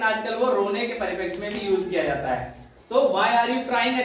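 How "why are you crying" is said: very slow, enjoying the phrase; slow savoring read. Shown as a demonstration. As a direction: savor it, word by word. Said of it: "अच्छा लग रहा है बोलने में". (मज़े लेकर धीरे-धीरे)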